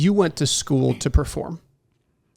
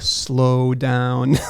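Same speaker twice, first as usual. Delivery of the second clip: slow reminder. Retold or imitated. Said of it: "I get these reminders".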